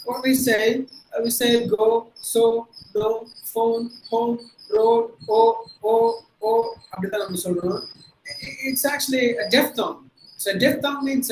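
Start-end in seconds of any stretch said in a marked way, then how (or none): 1.8-6.5 "go", "so", "no", "phone" with one pure long o; local pronunciation. Shown as a demonstration. Teacher shows class how we usually say it, pure-vowel demonstration. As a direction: say "road" and "home" with an unglided o. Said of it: "that we don't say. What we say".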